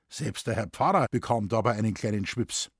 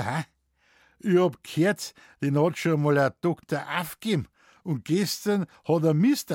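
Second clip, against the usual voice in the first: verschmitzt; 3 semitones higher than usual. Acted. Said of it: "lächelte er verschmitzt und fragte augenzwinkernd".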